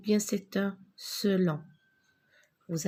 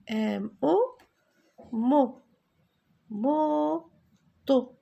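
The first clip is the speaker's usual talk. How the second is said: emphatic model word; 5 semitones higher, much slower than usual. Shown as a demonstration. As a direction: ring out "Moto" to the class.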